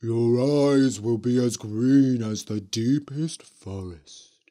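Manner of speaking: a hint of a spooky witch. A narrator's reading. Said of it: "said the Green Witch".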